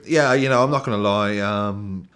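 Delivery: lightly voiced footballer in an interview. Host likening poem to interview, lightly mimicked footballer. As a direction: mimic a filler-strewn post-match answer. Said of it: "It's like a football interview".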